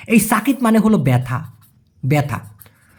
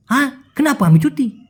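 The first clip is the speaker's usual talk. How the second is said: higher Malaysian slang question; 5 semitones higher than usual. Retold or imitated. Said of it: "ওদের স্ল্যাংয়ে বা ওদের টানে".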